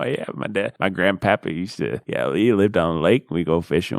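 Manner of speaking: put-on Southern country voice; country Southern accent. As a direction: reminisce like a Southern country fisherman. Hammed-up country fishing reminiscence.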